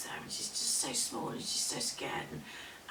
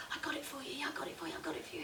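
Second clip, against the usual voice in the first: high, softer, hurried repetition; eager; 7 semitones higher, 5 dB quieter, much faster than usual. Acted. Woman holding out the hair to the crone, eager. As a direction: gush it out expectantly. Girl proudly hands over hair.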